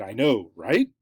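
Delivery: "right?" swept sharply up into a question; rising intonation. Shown as a demonstration. Seeking support after a firm declaration, rising intonation. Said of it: "when you have that rising intonation".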